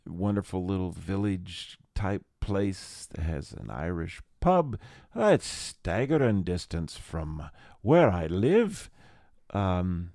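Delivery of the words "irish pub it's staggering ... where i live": slow, put-on Irish lilt; lightly hammed-up Irish accent. Podcaster placing his local Irish pub, in a mock Irish accent. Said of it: "that's my Irish accent".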